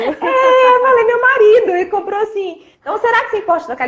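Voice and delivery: laughing. Real, not acted. Wife laughing while telling the vendor about her husband, laughing. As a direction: laugh as you tell the vendor.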